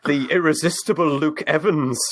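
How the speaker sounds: slow, booming movie trailer voice; epic announcer voice. Pretend. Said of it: "in an epic announcer voice".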